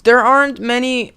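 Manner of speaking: loud high mournful cry. Shown as a demonstration. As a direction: wail it in grief. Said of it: "retake, dramatic".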